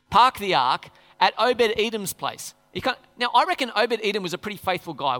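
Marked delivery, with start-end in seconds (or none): 0.1-2.6 David. Retold or imitated. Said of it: "It's pretty good, isn't it?".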